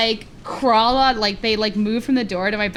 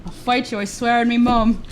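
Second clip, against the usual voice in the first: Aussie eshay slang. Acted. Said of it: "aussie eshay slang".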